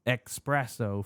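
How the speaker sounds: "espresso" said as ex-PRESS-oh; "espresso" starting with EX instead of ES; mocked mispronunciation. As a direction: say "espresso" with an intrusive K. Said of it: "people pronounce them as if it's E X".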